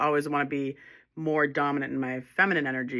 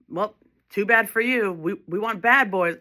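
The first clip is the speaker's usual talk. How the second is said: higher, louder mocking brush-off; mock dismissive; 6 semitones higher, 5 dB louder than usual. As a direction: imitate a woman scornfully turning him down. Voicing dismissive women rejecting kind man.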